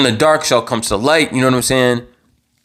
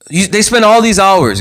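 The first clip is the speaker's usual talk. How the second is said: excited; 5 semitones higher than usual. Real, not acted. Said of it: "I'm really passionate about this".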